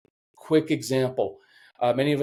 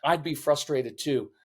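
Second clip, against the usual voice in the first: put-on meet the child's frustration gently; understated understanding calm; validating. Shown as a demonstration. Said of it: "when I come in the room".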